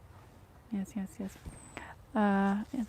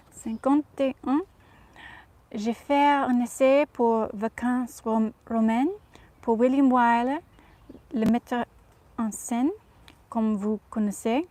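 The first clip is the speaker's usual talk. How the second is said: put-on Audrey's French accent. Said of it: "speak in her accent in French".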